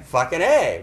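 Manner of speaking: loud, punchy mock cheer; put-on excited outburst; acted excitement. Shown as a demonstration. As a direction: exclaim it as an example of excitement. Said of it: "which you're excited".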